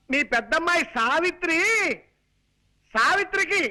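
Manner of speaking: bursting to share good news; worked-up announcement. Acted. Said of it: "ఇలా కాళ్ళు చేతులు ఊపుతూ హైరాణ పడాలా". (ఉత్సాహంగా హడావిడిగా చెప్పడం)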